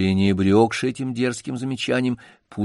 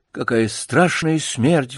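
вздох; 4 semitones higher, slower than usual. Acted. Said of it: "вздохнул Бутон".

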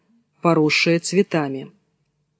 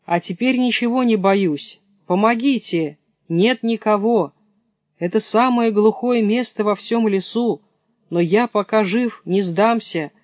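higher, lightly voiced brave little hare; plucky hare; 4 semitones higher than usual. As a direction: hare rallying himself alone in the forest. Hare rallies himself alone.

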